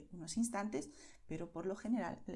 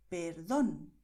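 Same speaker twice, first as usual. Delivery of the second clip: perdón, with a strong stress on DÓN; perdón said low and deliberate, DÓN punched; stressed syllable demo; 4 semitones lower, 4 dB louder than usual. Shown as a demonstration. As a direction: hit the last syllable of perdón. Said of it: "la sílaba tónica es la sílaba que destacamos".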